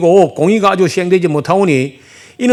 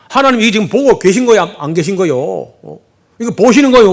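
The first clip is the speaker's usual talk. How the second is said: defiant protest; 3 semitones higher than usual. Retold or imitated. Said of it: "하나님께 막 대들듯이 따집니다".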